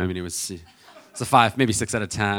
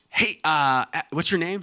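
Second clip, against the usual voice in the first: imitating a pushy mom, higher pitched; overbearing mom; 7 semitones higher, 3 dB louder than usual. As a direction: lightly play a nosy, forward mother. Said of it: "with an overbearing stranger".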